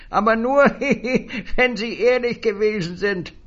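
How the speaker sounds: high, loud jeering laughter through the words; a gloating high cackle; mocking laugh.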